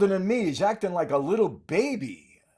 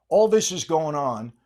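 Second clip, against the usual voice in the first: unvoiced, hushed "All this is going on"; whisper; 3 dB louder than usual. Real, not acted. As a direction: drop to a whisper. Same words repeated.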